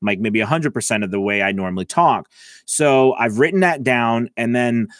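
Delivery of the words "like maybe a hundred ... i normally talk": quicker, brisk normal pace; back to speed. Shown as a demonstration. Teacher showing students the faster speed, briskly. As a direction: pick the tempo back up. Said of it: "speed back up".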